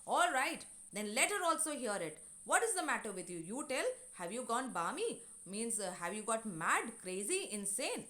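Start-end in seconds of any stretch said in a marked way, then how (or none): 0.1-5.2 retold shout. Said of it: "he shouts that".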